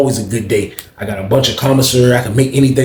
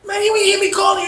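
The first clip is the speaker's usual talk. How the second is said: high shouted call; 3 dB quieter than usual. Retold or imitated. Narrator shouting to Jeff through the cell door. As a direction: shout through the door to get his attention.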